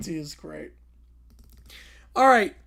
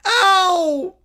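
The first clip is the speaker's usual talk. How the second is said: yelp of pain; 5 semitones higher, 6 dB louder than usual. Acted. Bear punches himself.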